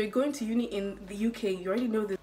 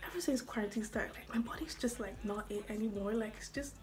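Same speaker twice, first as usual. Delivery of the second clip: soft, winded talk with sighs; out of breath; 7 dB quieter than usual. Real, not acted. Vlogger confessing quarantine unfitness, out of breath. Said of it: "I'm already out of breath".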